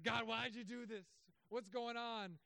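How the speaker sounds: high-pitched protest to heaven; complaining. Acted. Job complaining to God, aggrieved. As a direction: plead and complain, pitch held up. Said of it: "Job was complaining to God".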